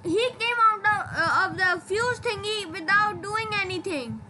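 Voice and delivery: frustrated pleading. Real, not acted. Pleading his case, frustrated.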